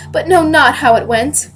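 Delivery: measured stage declamation rising in force; Hermione. Acted. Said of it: "I am reading as the character Hermione".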